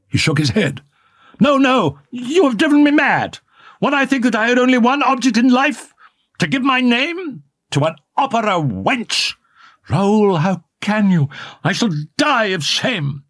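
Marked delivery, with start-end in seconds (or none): 1.4-13.2 much higher, hurt outcry; anguished anger. A narrator's reading. Young man raging at his beloved, anguished. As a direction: rage through wounded pride.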